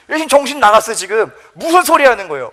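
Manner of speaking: high, heated telling-off; 항변, 꾸짖음. Acted. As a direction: scold the teacher in acted outrage. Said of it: "막 항변합니다". (막 혼내듯 높은 소리로 항변)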